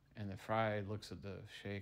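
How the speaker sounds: ordinary talk, nothing marked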